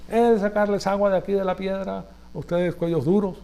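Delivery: a touch of scorn, mildly voiced; fed-up leader snapping at the people; exasperated Moses. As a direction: scold the stubborn people in mock exasperation. Moses striking the rock.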